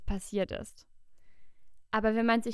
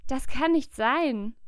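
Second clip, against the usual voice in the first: louder and slow, higher, leaning on nicht; slow disbelief; 4 semitones higher, 6 dB louder, slower than usual. A narrator's reading. Petrus repeats his denial to Maria, slow and louder. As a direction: drag it out in shock.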